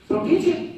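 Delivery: "teach" thrown up high and stressed; pointed retort to the teacher; emphatic demand. Retold or imitated. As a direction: hit the word "teach" high. Father arguing with the teacher.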